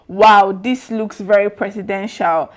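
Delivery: slow, emphatic mock admiration; drawn-out, lightly sarcastic wow; retold sarcasm. Commentator reading a politician's tweet aloud, with mild sarcasm. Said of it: "say something sarcastic".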